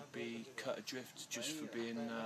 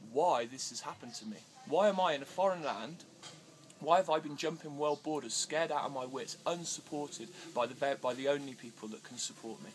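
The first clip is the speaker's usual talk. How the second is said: rising to a loud, pleading cry; impassioned plea; 3 semitones higher, 8 dB louder than usual. Retold or imitated. Pleading loudly to Candice about being banned, impassioned cry. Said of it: "I've sent this shout out".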